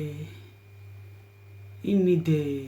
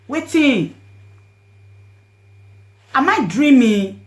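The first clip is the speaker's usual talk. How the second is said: anguished shock; 7 dB louder, slower than usual. Retold or imitated. Narrator crying out in disbelief over her dead friend. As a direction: shout your disbelief at the news.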